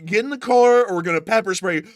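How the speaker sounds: loud mock cop threat; hammed-up cop order; cop warning. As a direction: threaten him with spray. Acting out police arrest.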